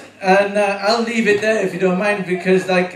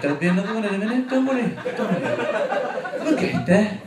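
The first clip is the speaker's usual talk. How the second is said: Welsh sat nav; 3 semitones higher than usual. Retold or imitated. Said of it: "it would go like this".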